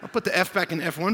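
loud, mock-offended retort; mock indignant. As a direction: scold a friend in jest. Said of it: "I'm like".

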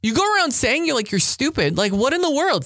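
high, exasperated scolding of a friend; retelling the time she lost patience with a friend, irritated. Retold or imitated. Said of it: "I got so angry with them once".

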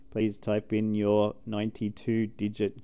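lightly voiced automated phone menu; a hint of a robotic recorded prompt. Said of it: "it's like".

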